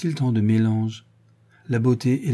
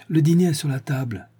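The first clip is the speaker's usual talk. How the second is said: a little higher, calling out across the garden; calling from afar; 4 semitones higher than usual. Acted. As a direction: call the family in from far off. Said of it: "cria-t-elle de loin".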